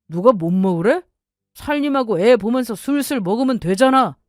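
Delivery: scornful husband's retort, climbing in pitch; put-on voice of an unsympathetic husband; dismissive husband. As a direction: brush off your wife's complaint. Acted husband retorting in quarrel.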